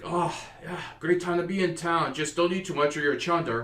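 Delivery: loud, high Outback Australian accent, hammed up; a jolly Aussie dwarf greeting travellers, broad Australian accent. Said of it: "every dwarf in that city was an Aussie".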